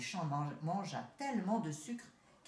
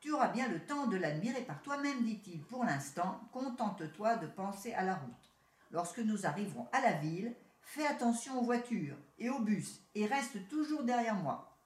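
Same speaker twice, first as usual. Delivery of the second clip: curt. Acted. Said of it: "d'un ton plus sec".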